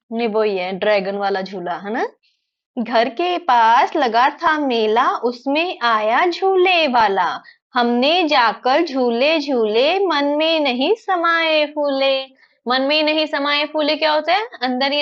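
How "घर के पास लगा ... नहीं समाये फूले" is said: put-on slow sing-song children's verse; poem recitation. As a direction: recite slowly, stretching each word with a lilting tune.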